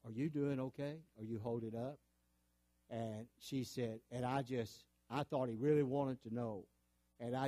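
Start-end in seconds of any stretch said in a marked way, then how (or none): 0.0-2.0 retold gentle check-in; lightly imitated kindly voice. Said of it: "he said in a kindly voice".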